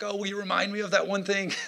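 high-pitched mock plea to God; begging. Pastor acting out his plea to God over a forgotten point, begging. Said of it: "I'm begging God".

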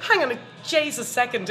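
put-on putting on a Dublin accent; lightly hammed-up Dublin accent; best Dublin accent. Driver objecting to a parking ticket, Dublin accent. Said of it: "in my best Dublin accent".

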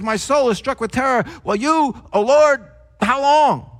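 acted distress, broken into short urgent phrases; discomforted plea. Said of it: "It feels twisted with discomfort".

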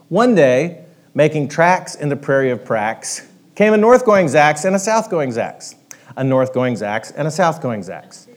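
storybook reading, lively and rhythmic; story narration. A narrator's reading. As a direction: tell it like a bedtime tale to the room. Reads a Dr. Seuss story.

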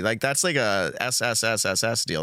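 long hissed S sounds in a row; drawn-out s like a snake. Shown as a demonstration. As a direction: hiss each S like a snake. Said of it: "sidelined in Salt Lake City?".

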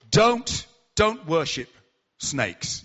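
a preacher's urgent call, then calmer; warning. Retold or imitated. Evangelist warns snake worshippers.

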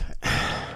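a soft unvoiced sigh; mock sigh. Friend imitating a character's sigh. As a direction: let out a breathy theatrical sigh. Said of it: "Somber goes".

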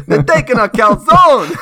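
loud, high indignant Italian caricature; hammed-up Italian complaint; mock Italian outrage. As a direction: cry out like a wronged Italian. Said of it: "Italians are like".

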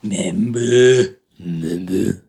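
squeaky cartoon fruit voice; Member Berries voice. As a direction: coo it like a cartoon berry. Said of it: "don't get caught eating them member berries".

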